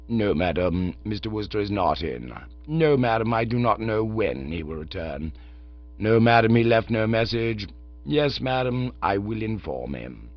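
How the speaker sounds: calm, unruffled manservant; Jeeves the valet. Acted. Jeeves on the telephone.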